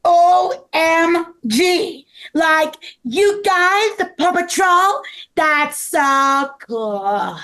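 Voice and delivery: slow, drawn-out awe; starstruck gushing. Acted. Meeting the Paw Patrol at the store, starstruck gushing. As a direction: stretch each word out in fan-like amazement.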